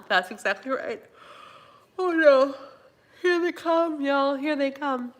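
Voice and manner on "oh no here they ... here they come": high, loud mock alarm; mock dread. Real, not acted. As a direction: sound the alarm at a yawn. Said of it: "The yawns".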